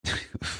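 quiet, short acted laugh; brief breathy snicker; soft chuckle. A narrator's reading. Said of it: "Le conseiller Albedo rit de nouveau".

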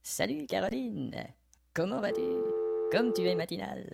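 smooth seductive. Acted. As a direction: croon it softly. Rehearsed suave greeting.

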